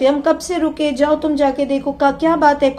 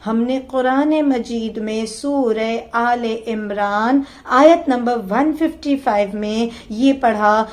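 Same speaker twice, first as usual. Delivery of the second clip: closing prayer. Acted. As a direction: plead humbly to God, easing down. Preacher leads closing supplication.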